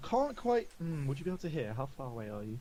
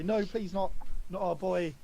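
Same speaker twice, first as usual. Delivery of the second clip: higher, louder mock plea; hammed-up parental pleading without real tears; pleading parents; 5 semitones higher, 5 dB louder than usual. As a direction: beg for your boy, lightly acted. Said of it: "they kind of start crying".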